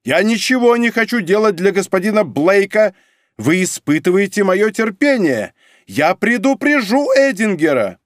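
high, loud, worked-up; greatly agitated. A narrator's reading. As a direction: lose his temper. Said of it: "приходя в необычайное возбуждение". (взволнованно, громко)

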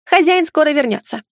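high little squeaky voice; squeak. Acted. Lali reassuring as she darts back inside, squeaking. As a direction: pipe up high and small. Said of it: "пискнула Лали".

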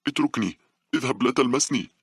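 high-pitched, half-screamed protest; old woman screaming. A narrator's reading. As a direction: cry out sharply to fend someone off. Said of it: "بدأت العجوز بالصراخ". (بصراخ عجوز معتدل، بطبقة عالية)

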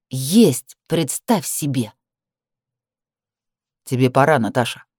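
grind each word out coldly; through her teeth. Acted. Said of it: "Теперь она цедила слова".

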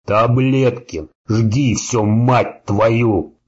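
slow strained roar through blood; half roar, half howl, gurgling. Acted. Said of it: "выдавил он булькающий полурык, полувой".

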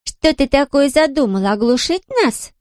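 defiant. A narrator's reading. Girl challenges the woman who burst in, defiant. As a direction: throw the question back as a defiant girl. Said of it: "с вызовом спросила она".

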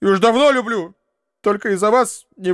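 a lightly voiced girl crying out her love; tearful confession. Uncle retells Nastenka's tearful confession, high and rushed. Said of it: "заплакала, зарыдала".

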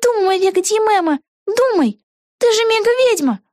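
put-on excited young witch thinking aloud; Vega's voice. A narrator's reading. Вега себя подбадривает. (высокий голос юной ведьмы Веги)

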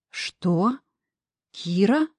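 astonished question rising at the end; stunned, recognizing her voice; surprised. A narrator's reading. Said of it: "послышался изумлённый".

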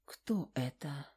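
whispered, slow and soft; quiet question. Acted. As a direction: lean in and whisper it. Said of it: "тихо спросила Сашка".

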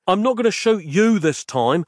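mild yell over bawling. Acted. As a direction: shout to be heard over screaming kids. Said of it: "he yelled".

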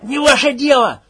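furious shout; angry shout. Acted. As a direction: bark it back at him. Max snapping back.

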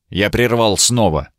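ordinary delivery, nothing marked

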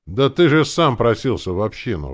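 loud, high-pitched reproach; exclaiming. A narrator's reading. Uncle reminding him he asked to join the commune, exclaiming. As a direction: cry out in protest. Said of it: "воскликнул дядя Вова".

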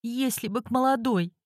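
bitter, high, muttered through teeth; through her teeth. Acted. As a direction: spit it out with bitter spite. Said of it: "процедила клиентка".

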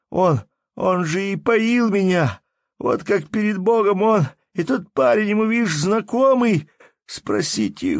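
high, loud desperate wail; a robbed peasant begging his brothers, desperate; desperate plea. A narrator's reading. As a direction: plead to the crowd in despair. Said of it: "отчаянно размахивая руками".

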